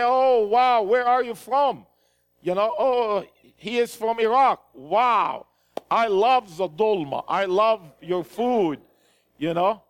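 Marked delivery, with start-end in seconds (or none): 0.0-1.9 higher, louder delighted exclamation; demonstrated excited greeting. Shown as a demonstration. Preacher showing how to greet a Muslim person, demonstrated excitement. 2.8-8.8 demonstrated enthusiasm. Shown as a demonstration. Preacher showing how to befriend an Iraqi through food, demonstrated enthusiasm.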